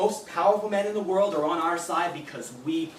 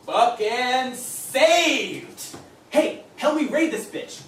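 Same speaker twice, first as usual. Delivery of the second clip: higher and louder, slow triumphant "saved"; rallying the forum; gleeful call to arms; 4 semitones higher, 4 dB louder, much slower than usual. Acted. Posting to the forum army.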